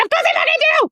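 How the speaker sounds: very high, loud tearful shriek; hammed-up weepy, drunken yes; mock drunk crying. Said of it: "drunk, crying".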